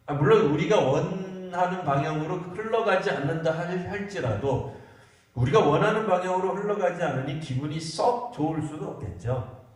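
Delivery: usual speaking voice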